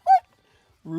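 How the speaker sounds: high yelling in alarm; shocked scream. Real, not acted. Streamer yelling at the screen in shock. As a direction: scream it out, panicked.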